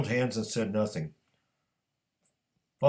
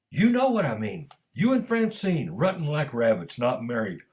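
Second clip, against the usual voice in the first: high, loud scolding that settles by the end; boiling with anger; 4 semitones higher, 4 dB louder than usual. A narrator's reading. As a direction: berate him indignantly, starting high and forceful. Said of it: "boiled with anger".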